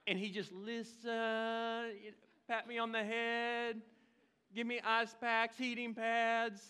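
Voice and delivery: drawn-out, singsong mock whine; a pampered patient, lightly hammed up; mock whining. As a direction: stretch each phrase out and hold the last word. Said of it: "I could whine to him".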